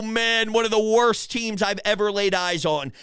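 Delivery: ordinary talk, nothing marked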